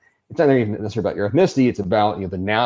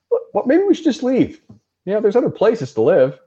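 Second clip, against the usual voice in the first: mock timid immigrant; 11 semitones higher than usual. Voicing immigrants fleeing the pogroms.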